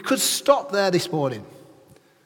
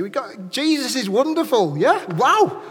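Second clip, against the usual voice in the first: loud, high, exuberant preaching; excited; 5 semitones higher, 6 dB louder than usual. Real, not acted. Preacher whipping up the congregation to applaud Jesus, loudly excited. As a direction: build to a jubilant shout for applause. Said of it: "We've got to get excited about it".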